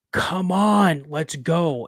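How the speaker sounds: 像在远处急喊弟兄快走; calling out urgently. Retold or imitated. Brother calling out to flee.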